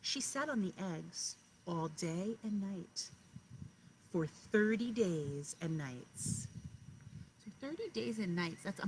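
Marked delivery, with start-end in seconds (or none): 0.0-6.5 slow, rhythmic read-aloud voice; storybook narration, each line weighted; story reading to children. Acted. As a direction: read it like a bedtime picture book to kindergartners. Teacher reads picture book aloud.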